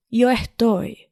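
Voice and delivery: yo estoy with a clean y, jo estoy; non-Argentine Spanish accent. Shown as a demonstration. Host contrasts standard with Argentine Spanish, neutral accent. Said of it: "Argentine over here".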